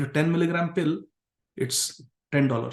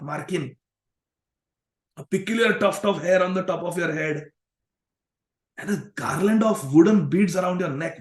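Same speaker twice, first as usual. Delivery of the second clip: higher, incredulous berating; indignant accusing; 4 semitones higher than usual. Retold or imitated. Digambar berating his friend's outfit and habits, indignant. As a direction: pile on the complaints.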